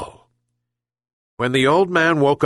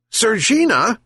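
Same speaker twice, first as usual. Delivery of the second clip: much higher, louder second call; louder repeat shout; 12 semitones higher than usual. A narrator's reading. Sick fisherman shouts again for the cat, higher. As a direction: call again, pushing it up high. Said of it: "he shouted again".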